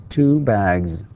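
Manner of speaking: "bags" with a final buzzing z; voiced plural Z. Shown as a demonstration. Teacher repeating the plural for students, voiced ending. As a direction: voice the last sound of "bags" as z. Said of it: "تكتب S وتنطق".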